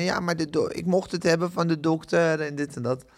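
put-on broad Amsterdam accent, complaining patient; whiny customer in plat Amsterdams accent. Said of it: "Ik doe nu een plat Amsterdamse accent".

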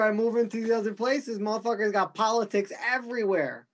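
ordinary delivery

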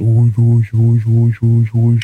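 loud breathy whooshing noises; portal whoosh sound. Retold or imitated. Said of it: "and it went".

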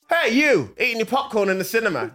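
mock ad pitch. Mock Birmingham tourism ad pitch.

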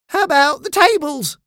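high, loud shout; called-out suggestion. A narrator's reading. Pirate suggests throwing out the tables, calling out. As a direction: pipe up loudly over the deck. Crewman calls out an answer.

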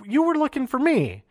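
imitating an irritated interruption; annoyed Sami. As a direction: Sami cutting in, put out. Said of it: "He's like".

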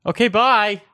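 loud, high-pitched little voice; high squeaky goodbye. Acted. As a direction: chirp a bright high bye. Dibby says goodbye.

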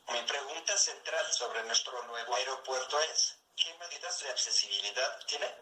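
text-to-speech computer voice; even, machine-read delivery; synthesized voice. Real, not acted. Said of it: "esta es una voz sintetizada". (voz sintetizada por computadora)

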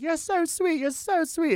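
high, soft-edged celebrity voice; imitated gracious star. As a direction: play a film star humoring a young fan. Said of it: "she was like".

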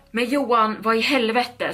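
screaming. Acted. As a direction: lift it into a shocked half-yell. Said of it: "skrek hon". (ett halvhögt chockat skrik)

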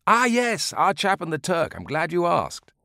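put-on old man resuming his tale with relish; old man remembering. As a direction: act as if it just came back. Old man recalls story.

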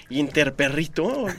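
«Interperrito» lento, con acento en la segunda I; palabra mal dicha. Retold or imitated. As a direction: di «Interperrito» estirado, como perrito. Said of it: "empezó a decir". («Interperrito» mal dicho y despacio)

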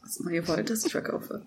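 a hint of a serious commercial read. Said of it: "einfach so, so tief".

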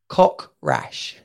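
"Cock rash" said low and breathy, run together like "cock rash"; the American ear hears "Cock rash"; misheard as cock rash. Shown as a demonstration. Heard through an American filter, "Cock rash" runs together. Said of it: "accent filter on".

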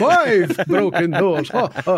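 slow, counting with a mock vampire relish; hammed-up Count voice, slow and drawn out. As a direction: count the broken doors like the Sesame Street Count. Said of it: "'cause the count works there".

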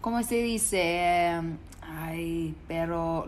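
affected Spanish hesitation; put-on Spanish. Pretending to forget English after holidays, put-on Spanish. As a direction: fumble for words in mock Spanish. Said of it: "coming back to school and being".

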